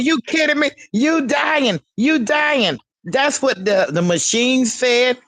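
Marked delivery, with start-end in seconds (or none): 0.0-2.8 mock doctor. Retelling doctor's panic, laughing.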